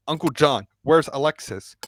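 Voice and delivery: urgent question, stopping short of a scream; mild near-scream. Acted. Curtis remembers last night and asks after Alexis, restrained near-scream. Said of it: "and almost screamed".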